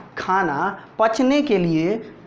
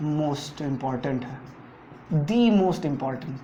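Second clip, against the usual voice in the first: most important said very slowly, each syllable weighted; slow emphasis; 4 semitones lower, 4 dB quieter, much slower than usual. Shown as a demonstration. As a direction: lean on most important like a warning. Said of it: "teacher stresses exam importance". (बहुत धीरे, ज़ोर देकर)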